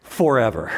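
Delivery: "forever" set apart and stressed, falling at the end; emphatic forever. Real, not acted. Preacher underlining forgiveness for the congregation, emphatic "forever". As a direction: land firmly on "forever" as a word of its own. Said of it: "Can I emphasize the word".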